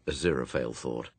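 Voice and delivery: ordinary delivery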